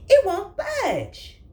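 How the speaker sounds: high, loud and slow strain. Acted. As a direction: grunt it out while pushing. Rat pushing chair.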